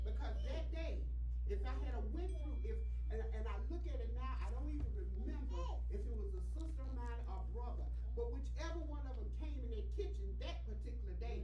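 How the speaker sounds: loud, emphatic church testimony; preaching testimony. Real, not acted. Testifies to congregation at raised volume.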